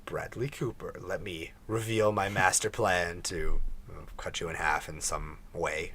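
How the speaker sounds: Bond villain. Acted. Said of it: "it sounds like a Bond villain".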